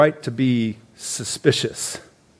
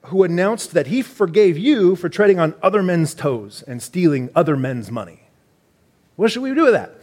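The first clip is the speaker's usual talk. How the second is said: mock British accent, rising higher at the question; playful British reading voice; 6 semitones higher than usual. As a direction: keep hamming the British accent. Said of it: "Sorry, I had to do it".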